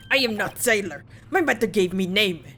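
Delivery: gruff mock Russian sailor; a proud sailor in a put-on Russian accent; bad Russian accent. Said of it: "my very bad Russian attempt".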